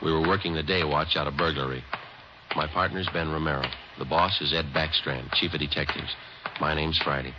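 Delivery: understated, matter-of-fact detective narration; terse narration. A narrator's reading. Detective narrating his workday to listeners, dry and understated. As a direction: state the facts dryly, no color. Friday's clipped story narration.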